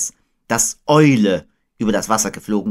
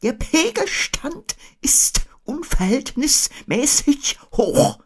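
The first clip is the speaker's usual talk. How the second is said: Eule; slower than usual. A narrator's reading. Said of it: "erläuterte Eule".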